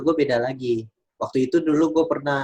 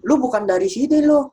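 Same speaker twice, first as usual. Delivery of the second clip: high-pitched mock jeering at a stranger; imitating a racist taunt; 10 semitones higher than usual. Stranger in a mall jeering at the speaker, mock taunt. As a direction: sneer it out in a much higher mock voice.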